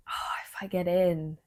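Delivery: breathy hushed hope, close to tears; emotional whisper. Real, not acted. Vlogger overcome thinking of getting into drama school, whispering. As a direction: whisper it as if too moved to speak. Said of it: "I'm getting emotional thinking about it".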